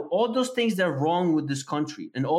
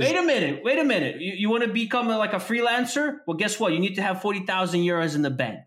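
heated rant; 3 semitones higher than usual. Real, not acted. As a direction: rail against the rules. Heated rant on Europe rules.

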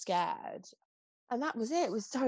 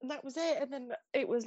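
teary; 3 semitones higher than usual. Real, not acted. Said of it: "I'm so emotional today".

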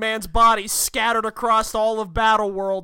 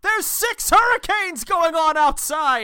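loud, high-pitched angry outburst; exasperated Doom; 8 semitones higher, 4 dB louder than usual. Acted. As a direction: shout it like a furious, fed-up supervillain. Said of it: "To which Doom responds".

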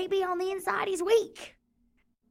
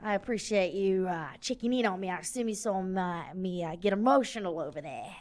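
lower, softer, earnest confession; 8 semitones lower, 5 dB quieter than usual. Acted. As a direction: open up quietly to a friend. Big guy's tender confession.

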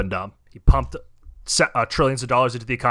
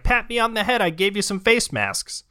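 mock Tim Cook; 9 semitones higher than usual. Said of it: "Tim Cook being like".

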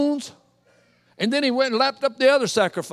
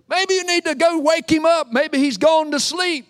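higher and louder sneer; mocking taunt; 6 semitones higher, 4 dB louder than usual. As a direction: needle them with a grin. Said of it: "He starts talking smack".

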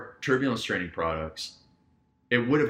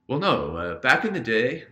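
put-on British accent; 2 semitones higher than usual. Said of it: "he says this in a British accent".

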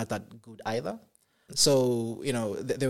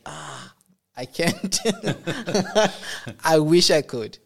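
sheepish laugh while admitting it; embarrassed laughing reply; 6 semitones higher, 7 dB louder, slower than usual. Retold or imitated. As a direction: laugh out an awkward "ah, I can't". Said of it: "And I'm like".

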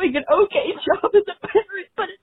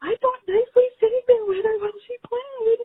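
crying; 6 semitones higher than usual. Real, not acted. Caller crying.

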